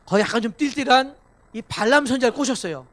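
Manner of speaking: ordinary delivery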